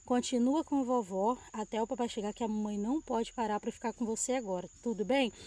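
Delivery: put-on softly soothing a frightened child; calm her down gently, voice dropped; gentle reassurance. Mother quietly reassuring her crying daughter, softly tender.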